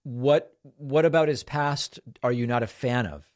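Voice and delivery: ordinary talk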